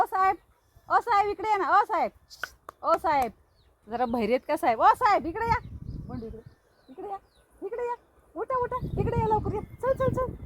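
high sing-song calls to come over; calling to the animal. Real, not acted. Owner calling her pet over, high coaxing calls. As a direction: coax him over with high repeated calls.

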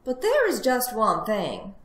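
high piglet voice, coming down; concede, then slip in a condition; reluctant little piglet; sighing resignation. Acted. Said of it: "sighed the piglet".

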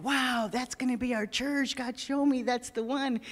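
slow, drawn-out wonder, mildly excited; excited retelling. Retold or imitated. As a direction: retell his delight at finding the church. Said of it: "he was so super excited".

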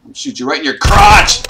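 high, loud taunt; gleeful loud threat; taunting yell. Real, not acted. Taunting Slender Man while shooting.

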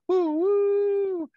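high, loud choo-choo whistle; train whistle. Shown as a demonstration. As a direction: toot like a toy train. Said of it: "here comes the choo-choo train".

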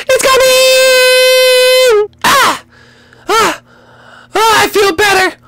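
very high long slow wail; high falsetto final push; drawn-out birth scream. Acted. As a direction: scream it out as long as you can.

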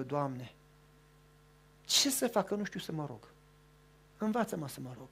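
hushed retold prayer; humble prayer. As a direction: pray like an unworthy sinner. Retells woman's prayer.

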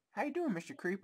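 sing-song high greeting; high cutesy voice. Pretend. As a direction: coo it up high like to a pet. Repeating cute greeting.

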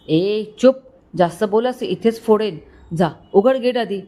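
shouting again. Acted. Drunk boss threatening driver, mild shout. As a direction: threaten him, voice pushed up a little. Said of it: "Paras परत ओरडला".

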